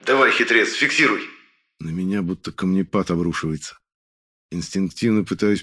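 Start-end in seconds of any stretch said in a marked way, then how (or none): 0.1-1.2 raised, pushing urge; urgent urging. Acted. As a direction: urge him on to finish. Urging the demon on.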